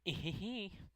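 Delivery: high little put-on giggle; character giggle. Club girl praised for her baking, high put-on giggle. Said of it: "Osana's voice".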